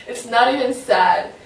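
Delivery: laughing through real tears, voice welling up; insisting it isn't sad while tears come; tearful laugh. Real, not acted. Vlogger to viewers, laughing off sudden tears, tearful. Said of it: "I don't know why I'm crying".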